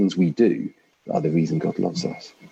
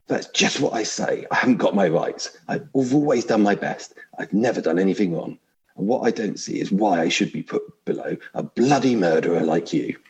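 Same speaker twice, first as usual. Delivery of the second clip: indignant big ghost; 3 semitones higher than usual. Acted. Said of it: "I'll try vaguely to put on different voices".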